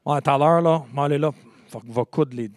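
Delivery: casual Québécois French, loosely slurred together; offhand Montreal French; Montreal French accent. Shown as a demonstration. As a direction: imitate everyday Montreal French talk. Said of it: "I come from Montreal".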